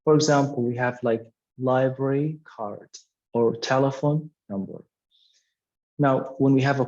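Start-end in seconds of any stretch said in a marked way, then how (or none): 1.6-2.9 "library" stressed, "card" falling away; stress on first word. Shown as a demonstration. Teacher showing compound nouns to students, stress on "library". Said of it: "the stress will be on the first word". 3.6-4.8 "telephone" stressed, "number" unstressed and falling; stress on first word. Shown as a demonstration. Teacher giving a compound noun example, stress on "telephone". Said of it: "the stress will be on the first word".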